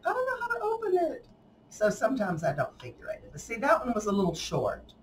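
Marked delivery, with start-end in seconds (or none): 0.1-1.3 quoting puzzled recipient. Retold or imitated. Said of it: "they're like".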